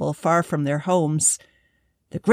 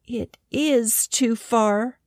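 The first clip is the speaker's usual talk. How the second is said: sad; 4 semitones higher, slower than usual. Acted. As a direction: let the disappointment slow it down. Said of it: "the little field mouse said sadly".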